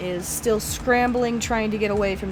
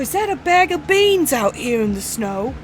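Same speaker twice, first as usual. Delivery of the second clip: put-on loud, rushed, higher accented babble; flustered babbling in accent; 4 semitones higher, 6 dB louder than usual. Store owner facing goblin robbers, loud flustered babble. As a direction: blurt it out, rattled, in a put-on accent.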